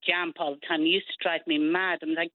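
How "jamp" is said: JAMP with an a in place of the u of jump; Invernessian dialect word. Retold or imitated. Dublin parent quotes the kids' word, dialect JAMP. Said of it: "used to say the word".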